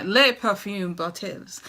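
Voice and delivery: playful mock-French pronunciation; little French accent. Vlogger naming her new bottles in a playful French accent. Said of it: "that's my little French".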